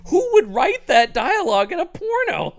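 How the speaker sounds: high, loud laughing outcry; mock baffled shout while laughing; laughing disbelief. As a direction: squeal it through laughter. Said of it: "We're just going like".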